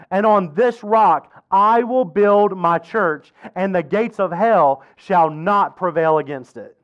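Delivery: measured, emphatic Bible reading; scripture reading. Acted. Preacher reads Peter and Jesus's exchange to congregation, measured scripture reading. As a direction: read it out solemnly with weighted key words.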